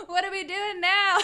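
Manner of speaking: mock-bright, laughing through the words; laughing mock cluelessness. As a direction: play it as a cheerful clueless arrival. Imagining arriving without a plan.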